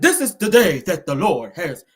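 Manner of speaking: slow, drawn-out preacher with a quivering last word; mock a preacher stretching the final word; preacher imitation. Host retells him trying to preach sitting down, slow quavering preacher. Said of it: "He was trying to preach".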